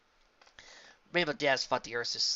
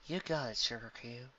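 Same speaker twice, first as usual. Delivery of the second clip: softer, sleepy chuckling reply; sleepy chuckle; 6 dB quieter than usual. A narrator's reading. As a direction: chuckle it half asleep. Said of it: "chuckled A J sleepily".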